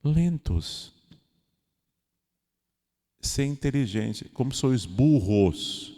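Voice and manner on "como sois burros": mock blunt rebuke. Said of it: "Jesus tá dizendo aqui".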